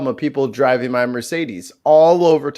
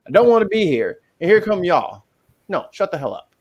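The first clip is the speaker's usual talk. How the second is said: fed-up telling-off, retold; acted-out exasperation; exasperated scolding; 4 semitones higher than usual. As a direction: scold two squabblers, pitch a bit raised. Scolding two arguing seniors, retold.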